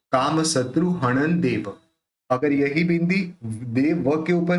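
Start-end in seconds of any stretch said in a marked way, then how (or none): 0.1-1.8 हणन देव joined by an n, not m; न उच्चारण. Shown as a demonstration. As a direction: keep the lips open for the n of हणन before देव. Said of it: "न करेंगे". (हणन देव में न, म नहीं)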